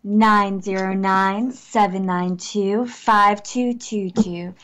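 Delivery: low, slow seductive read of the digits; a slow, low come-hither number read. Shown as a demonstration. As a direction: breathe the phone number out slowly to seduce. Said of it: "And that was my seductive voice".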